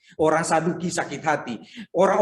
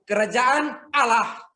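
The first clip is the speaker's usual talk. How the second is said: emphatic answer; 8 semitones higher, much slower than usual. Real, not acted. Preacher answering his congregation, slow emphatic shout. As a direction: drive each word home slowly.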